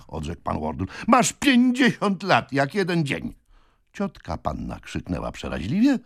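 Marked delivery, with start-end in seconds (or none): 1.1-3.3 high, slow, emphatic taunt; taunting insistence. A narrator's reading. Brother taunts his sister about her age, insistently. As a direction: rub it in, stretching the words.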